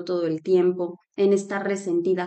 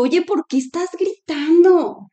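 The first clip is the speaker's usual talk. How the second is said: retold scolding; 8 semitones higher, 6 dB louder, slower than usual. She scolds her mother for shouting.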